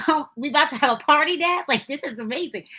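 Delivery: put-on excited kid. Child thrilled seeing caramels spread.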